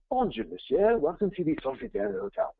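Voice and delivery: hammed-up French greeting; French accent. Doorman welcoming a guest to a French hotel, hammed-up French accent. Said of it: "French accent you're gonna get".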